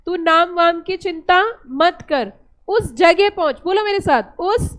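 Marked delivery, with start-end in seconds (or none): 0.1-3.6 slow recited mnemonic. Shown as a demonstration. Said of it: "फिर से बताइए".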